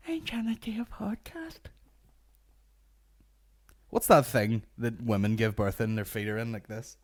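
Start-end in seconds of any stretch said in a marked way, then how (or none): 0.1-1.6 whispered, half-joking plea; mock whisper. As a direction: hiss it in a stage whisper. Mock plea after the call.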